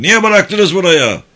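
loud, high, drawn-out reprimand; officer's shout. A narrator's reading. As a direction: shout it as a commander's rebuke. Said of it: "diye bağırdı".

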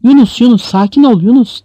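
loud, high urgent plea; shouting. A narrator's reading. Imam holding Yunus's head tries to calm him, shouting. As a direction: shout to calm a frantic man. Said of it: "diye bağırdı".

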